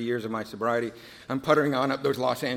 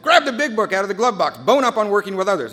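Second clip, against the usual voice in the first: urgent instruction; 7 semitones higher, 8 dB louder than usual. Retold or imitated. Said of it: "Bob said".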